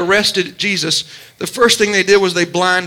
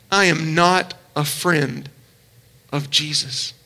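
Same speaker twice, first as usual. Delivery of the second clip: much softer, lower and slow, the words fading; hushed, broken echo; 7 semitones lower, 6 dB quieter, slower than usual. Retold or imitated. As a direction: let the denial sink into near silence. Jesus hears the denial.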